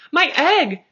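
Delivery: high, loud cry of joy; shouted. A narrator's reading. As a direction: shout it as the egg moves. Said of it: "shouted Horton".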